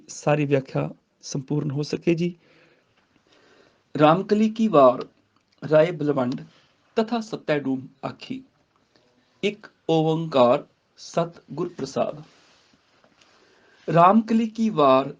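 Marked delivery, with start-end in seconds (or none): 3.9-12.2 measured, careful recitation; scripture recitation. Shown as a demonstration. Teacher recites the opening for students, measured recitation. 13.9-15.1 slow Ramkali ਕੀ ਵਾਰ, halting after ਵਾਰ; pause after ਵਾਰ. Shown as a demonstration. Teacher showing where to rest, slow recitation stopping on ਵਾਰ. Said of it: "ਇੱਥੇ ਰੁਕਣਾ ਹੈਗਾ".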